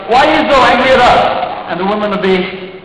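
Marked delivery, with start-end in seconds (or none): 0.1-1.3 high, loud baffled plea; a high, loud, baffled cry from a bewildered enemy soldier. Acted. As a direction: squeal it out, totally confused. Bewildered Iraqis facing angry women.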